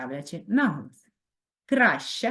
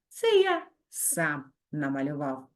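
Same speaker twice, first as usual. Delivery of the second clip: playful, lively poem reading; poem recital. A narrator's reading. Teacher reads funny poem to pupils, playful recital. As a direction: read it with a wink of humour.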